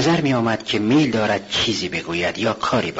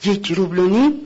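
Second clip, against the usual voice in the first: high, loud indignant question; outraged cry; 9 semitones higher, 4 dB louder than usual. Acted. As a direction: throw her price back at her in disbelief. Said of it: "جوان فریاد زد".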